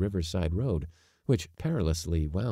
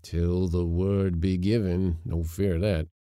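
put-on growling old servant; 4 dB louder than usual. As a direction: grumble it under protest. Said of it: "growled old Yorpy".

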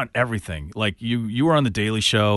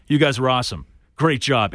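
imitating Jon Stewart; 3 semitones higher than usual. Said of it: "Exactly the way he said it to us".

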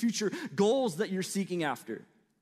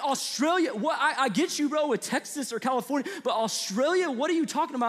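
incredulous; 6 semitones higher than usual. Retold or imitated. His baffled reply to kids.

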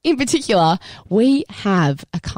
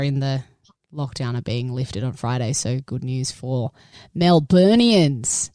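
croaky voice; 6 semitones lower than usual. Real, not acted. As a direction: talk through a croaky throat. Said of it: "a little bit of a croaky voice".

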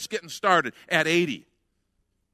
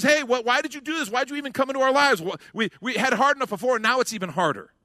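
screaming at Moses; 7 semitones higher, faster than usual. Acted. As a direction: yell it as an angry crowd. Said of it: "they start screaming at Moses".

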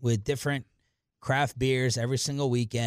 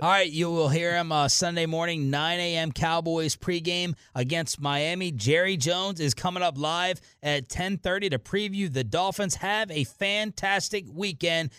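radio sign-off; 5 semitones higher than usual. Real, not acted.

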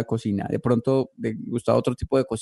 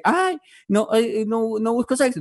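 mock prissy profile; 9 semitones higher than usual. Mocking a Tinder profile line.

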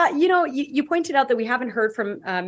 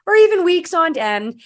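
dripping sarcasm. Acted. Host opening a segment on airport chaos, dripping sarcasm. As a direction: feign surprise, then deny it with heavy irony. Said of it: "detect the dripping sarcasm in my voice".

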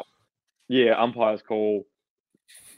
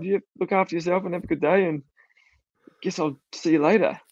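higher-pitched, awkwardly kind send-off; retold caring farewell; 7 semitones higher than usual. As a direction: wish him well despite yourself. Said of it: "I was a bit worried about this guy".

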